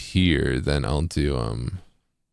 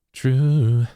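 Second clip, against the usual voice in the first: "True." sung, falling at the tail; pitch dipping at end; 7 semitones higher than usual. Shown as a demonstration. Tutor demoing synth tuning, pitch dipping down at end. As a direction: let "True." sink down at the end. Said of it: "kinda dip down at the end too".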